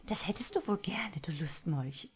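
whispered, playfully outraged; a hint of mock indignation under the breath; woman teases her lover in a whispered huff; indignant. A narrator's reading. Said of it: "empörte sich die weibliche Stimme".

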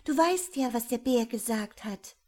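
höher und lauter, flehend warnen; besorgte Warnung. Acted. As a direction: ihn besorgt zurückhalten. Die Schönste erinnert ihn. (hohe, besorgte Frauenstimme)

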